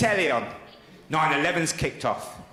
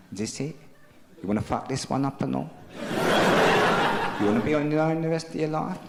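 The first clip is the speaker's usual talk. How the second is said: scolding himself; 3 semitones lower, faster than usual. Retold or imitated. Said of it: "had a little look in the mirror".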